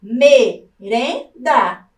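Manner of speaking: merenda drawn out slowly as me-ren-da; syllable by syllable. Shown as a demonstration. Teacher to class, sounding out merenda slowly. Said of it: "Vejam, ó".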